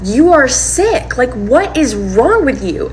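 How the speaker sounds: high, drawn-out mock outrage; retold screaming. Girlfriend screaming at partner in the front yard, retold outrage. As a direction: act out the yard fight, stretching each word in outrage. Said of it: "screaming so loud".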